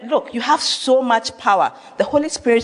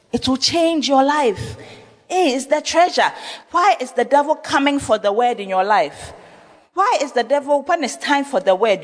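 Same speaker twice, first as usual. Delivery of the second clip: higher, building intensity; rising preacher fervour; 6 semitones higher than usual. Real, not acted. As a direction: push it up like a pulpit climax. Preaching climax.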